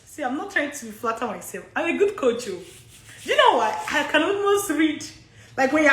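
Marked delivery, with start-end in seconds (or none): 0.0-2.6 laughing. Retold or imitated. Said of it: "I'm laughing because I'm like".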